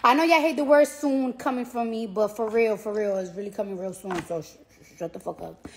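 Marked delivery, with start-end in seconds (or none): 4.2-5.7 hushed shut up. Real, not acted. Teasing fans, dropping voice.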